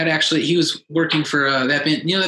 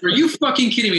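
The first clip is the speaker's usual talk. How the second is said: high-pitched incredulous reenactment; replayed stunned blurt, voice jumping up; retold disbelief; 7 semitones higher than usual. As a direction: act out being floored by the news. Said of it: "I literally went".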